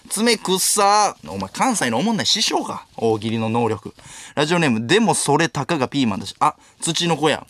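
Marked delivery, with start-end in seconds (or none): 0.1-1.2 very slow read. Acted. Reading a last-words answer.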